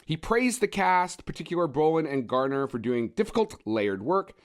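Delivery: slow, measured review reading; podcast sign-off quote, each phrase set apart; formal quote read. Real, not acted. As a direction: read out the critic's praise with deliberate pacing. Reads a review quote to close.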